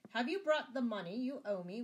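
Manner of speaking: high, loud anxious demand; gasped out. A narrator's reading. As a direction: blurt it out, a touch gasping. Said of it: "could gasp out".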